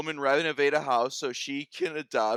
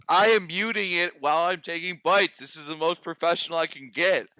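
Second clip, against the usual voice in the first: talking through a bite of pizza; chewing while talking; mouth full; 3 semitones higher, 4 dB louder than usual. Real, not acted. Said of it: "talking with your mouth full of pizza".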